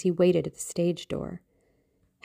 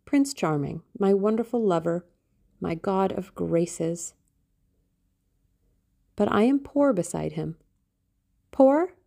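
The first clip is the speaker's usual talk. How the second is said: a touch of breathless adoration; lovestruck young Sybil; 3 semitones higher than usual. Acted. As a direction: gush over the beloved like a girl in love. Narrator voices Sybil's rapture.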